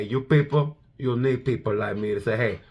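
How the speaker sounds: Scarface. Retold or imitated. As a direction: drop it soft and low like a crime boss. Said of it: "Marc Marquez is a Scarface of Moto G P".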